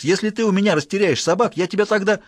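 angry threat. Acted. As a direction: threaten the servant. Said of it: "кричит Икс".

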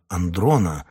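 plain reading voice

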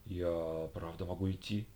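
soft, slow, unbelieving; can't believe he's let go; incredulous. Acted. Хьюго не верит Лише, тихо и медленно. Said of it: "не поверил Хьюго".

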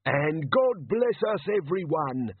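bright legless beggar Arnold; cheerful little beggar. A narrator's reading. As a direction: chirp it helpfully. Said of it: "said Arnold Sideways".

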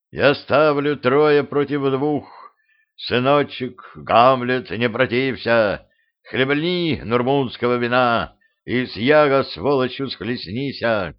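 put-on drunk king. Drunk king Lear offers wine.

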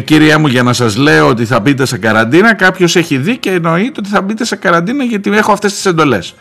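lightly voiced army officer giving orders; mock stern serviceman on the phone; military official. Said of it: "μου απαντά με στρατιωτικό αυτό".

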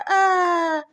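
high, loud wail of despair; loud anguished scream. A narrator's reading. Husband breaking down before the doctor, anguished scream. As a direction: let out a howl of grief. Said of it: "Он издал громкий крик".

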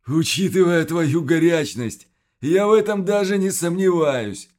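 gurgling creature laugh-talk. Acted. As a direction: bubble the words out. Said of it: "пробулькал в ответ Квас, видимо, рассмеявшись".

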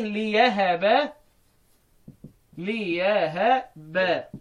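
ليهب drawn out slowly as "li-yahaba"; slow, stretched ليهب with ya for hamza; reading with ya. Shown as a demonstration. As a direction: say ليهب with a clear y glide after li. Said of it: "بالياء".

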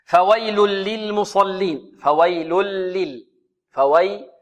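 slow, measured tajweed recitation; Quran recitation. Shown as a demonstration. Teacher modelling the verse for students, measured recitation. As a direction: recite it slowly with drawn-out long vowels.

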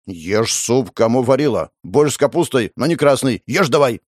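lightly voiced nagging mum; scolding mother. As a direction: nag him like a fed-up mother. Girl plays scolding mother. (слегка изображённая ворчливая мама)

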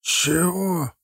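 high, drawn-out demand in Zakhar's voice; rough, gruff. A narrator's reading. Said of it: "грубовато бросил Захар".

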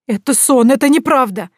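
loud, high, panicked; hysterical denial. A narrator's reading. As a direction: deny it in panic. (истерическое отрицание)

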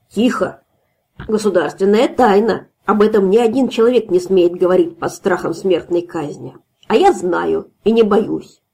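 lightly voiced drunk braggart; drunk secret-bragging. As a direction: boast of the secret, half-slurring. Drunk host brags secret.

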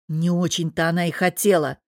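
ordinary delivery, nothing marked

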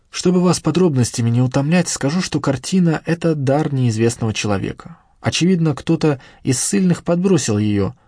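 выше, оживлённая рассказчица-хранительница; слегка обозначенный голос словоохотливой смотрительницы; говорливая хранительница музея. Acted. Хранительница рассказывает историю картины. (хранительница музея, оживлённо рассказывающая)

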